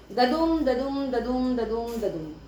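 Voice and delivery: teacher chanting the iambic beat ददुम; iambic rhythm demo. Shown as a demonstration. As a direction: tap out ददुम like a heartbeat, weak then strong. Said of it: "समझा दिया कि इयम्बिक pentameter".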